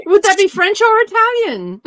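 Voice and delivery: high, loud, through laughter; laughing joke. Real, not acted. Friend adding to the salad dressing joke, laughing hard. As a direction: squeal the question while laughing.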